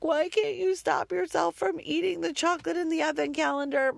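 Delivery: mother shouting at son about advent chocolate, frustrated. Retold or imitated. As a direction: yell it in pure frustration. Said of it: "I do have that feeling of".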